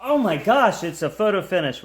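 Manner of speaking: excited high call of a close finish; race caller. Real, not acted. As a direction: call the photo finish with a jump.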